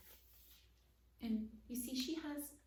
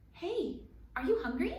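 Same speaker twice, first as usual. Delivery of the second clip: excited; 8 semitones higher, 8 dB louder than usual. Acted. Kitten voice greeting mice.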